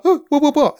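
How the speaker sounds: mock startled little girl, pitched high; confused girl. Daughter baffled by her dad, pitched high and startled. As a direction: play the daughter caught off guard, high. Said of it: "She's like".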